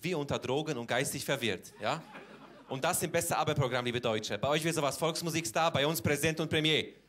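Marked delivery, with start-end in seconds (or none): 2.7-6.9 laut und etwas höher, ans Publikum gerichtet; empörte Tirade. Acted. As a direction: steigere dich laut in gespielte Empörung. (laut empört)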